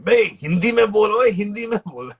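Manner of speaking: high, loud heckling yell; heckler's scream. Retold or imitated. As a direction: imitate someone screaming out from the balcony. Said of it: "in the balcony screams out".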